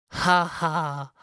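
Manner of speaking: high, loud squirrel laugh; mocking laugh. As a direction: jeer with a cheeky ha ha. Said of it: "laughed Squirrel".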